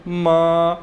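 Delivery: मा held level and flat, no rise or fall; first tone. Shown as a demonstration. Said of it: "कोई उतार चढ़ाव नहीं है". (मा को सीधी सपाट टोन में)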